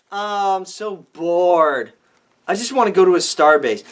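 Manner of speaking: mock the bored captain; a hint of whiny Kirk; mock whining. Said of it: "he's whining?".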